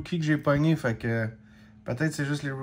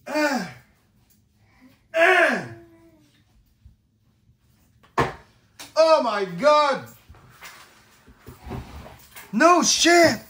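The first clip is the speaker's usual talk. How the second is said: high, loud, slow exclamations; high, loud shouts at a rare card; excited cries; 9 semitones higher, 5 dB louder, much slower than usual. Real, not acted. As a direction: cry out in amazement. Amazed by card pull.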